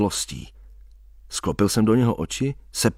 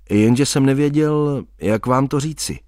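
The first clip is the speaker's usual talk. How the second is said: zoufale a pomalu, výš; pomalé, zoufalé doznání; 4 semitones higher than usual. Acted. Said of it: "a tak jsem zoufale dodal". (zoufalé, pomalé přiznání dívce)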